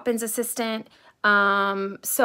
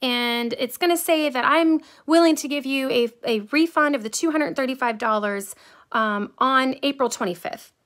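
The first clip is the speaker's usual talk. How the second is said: mock seamstress; 5 semitones higher than usual. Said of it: "She finally says".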